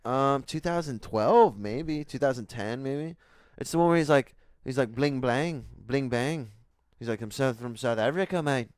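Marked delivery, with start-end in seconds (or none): 4.9-8.7 imitating Leonardo DiCaprio's South African accent; mock South African movie accent. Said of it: "you sound like Johnny Depp when you're saying that".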